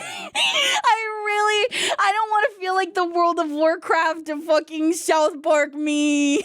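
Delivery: drawn-out mock-crying complaint; mock whining. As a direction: whine through giggles, dragging the words. Whining about feeling gross, laughing.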